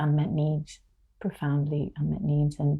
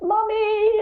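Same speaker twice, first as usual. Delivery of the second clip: put-on high child's cry of "Mommy"; imitating a child calling Mommy; 4 dB louder than usual. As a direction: call out like a hurt kid.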